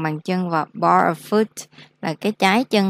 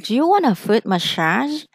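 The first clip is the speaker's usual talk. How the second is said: example question; 4 semitones higher than usual. Shown as a demonstration. Salon worker offers the customer a massage, higher rising question. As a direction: do you want a foot massage asked higher with a rising tune. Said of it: "Mình có thể vậy ha".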